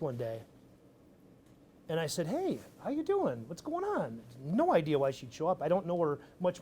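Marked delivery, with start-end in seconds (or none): 2.3-4.2 high, slow friendly hello; bright greeting. Retold or imitated. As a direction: greet her brightly, a little surprised. Greeting unexpected visitor at office.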